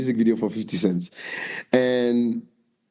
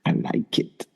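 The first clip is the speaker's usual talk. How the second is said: a singer's words mouthed without voice, as if read off her lips; "I like it" mouthed almost silently. Retold or imitated. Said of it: "I read into her lips".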